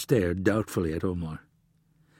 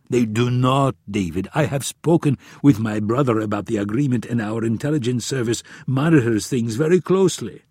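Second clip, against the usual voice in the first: a touch of the insistent prince; mildly emphatic royal rebuttal; lightly voiced Omar; 4 dB louder than usual. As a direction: push back lightly in the prince's voice.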